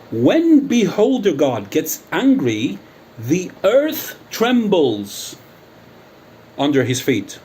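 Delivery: slow, high, booming proclamation of menace; grandiose threat. Real, not acted. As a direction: proclaim it like a wrathful legend, drawing out every word. Grandiose threat about himself to his rival.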